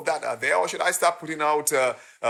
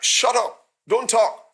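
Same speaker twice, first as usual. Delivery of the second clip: loud, higher bark of the crowd; mock crowd yell; 5 semitones higher, 6 dB louder, slower than usual. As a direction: shout them down like the crowd did. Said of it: "They're like".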